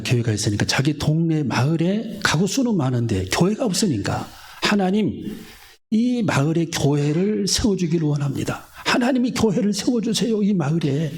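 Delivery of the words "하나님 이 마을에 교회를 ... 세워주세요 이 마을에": higher voice, imploring God; a touch of earnest pleading; pleading prayer. Retold or imitated. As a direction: beg God for a church. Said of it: "계속 이분이 기도를 했어요".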